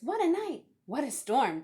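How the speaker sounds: mole muttering. Acted. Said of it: "Mole mutters".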